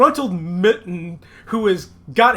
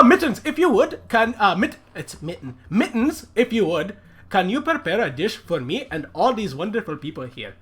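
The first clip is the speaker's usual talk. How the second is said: haughty mayor; 3 semitones higher than usual. Acted. Mayor ordering servant.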